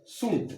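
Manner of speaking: सुंट with the d and t swallowed, like shunt; सुंट American style, d dropped; American shouldn't. Shown as a demonstration. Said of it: "American में बोलते हैं".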